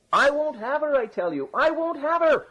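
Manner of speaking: very high-pitched wailed refusal; crying out loud. A narrator's reading. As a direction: cry it out, dipping then soaring. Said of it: "as loud as he could".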